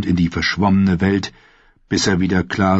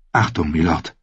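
warning knight; 3 semitones lower than usual. A narrator's reading. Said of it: "warnte der Ritter".

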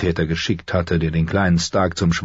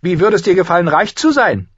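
high, louder sly question; tempting offer; 12 semitones higher, 5 dB louder than usual. A narrator's reading. Prisoner tempts the jailer with riches, sly. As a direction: dangle the bribe in a raised voice.

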